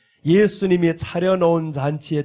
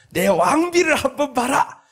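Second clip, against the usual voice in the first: boastful king; 8 semitones higher than usual. Acted. King boasting of his queen.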